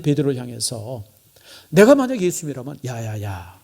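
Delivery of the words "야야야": low, soft, resigned demurral; calm him down quietly; acted gentle brush-off; mild reply. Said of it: "난 이 정도는 얘기할 수 있겠어요".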